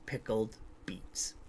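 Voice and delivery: whispering. A narrator's reading. Punchline of spooky holiday story.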